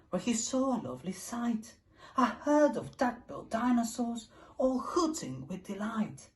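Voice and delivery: plain reading voice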